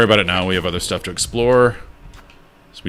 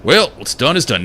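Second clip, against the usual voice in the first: higher, put-on Southern character voice; Southern accent; 6 semitones higher than usual. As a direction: slip into a hammed Southern accent. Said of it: "Now he's southern".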